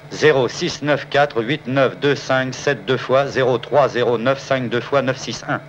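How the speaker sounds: reading digits slowly; slow dictation. Acted. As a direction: read each number out. Reading code aloud slowly.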